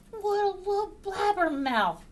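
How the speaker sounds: high-pitched rat complaint; exasperated high rat; muttering rat. A narrator's reading. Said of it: "muttered the rat".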